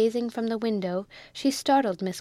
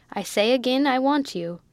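insistent; 4 semitones higher, 4 dB louder than usual. Acted. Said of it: "thumping the table".

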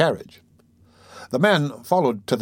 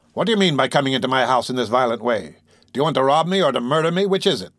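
indignant challenge. Acted. Humpbacked man challenges the intruder, indignant. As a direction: build to a sharp question.

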